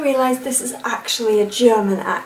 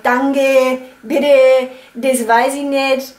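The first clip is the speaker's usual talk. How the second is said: Franconian twang; much slower than usual. Shown as a demonstration. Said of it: "a fränkischen Twang".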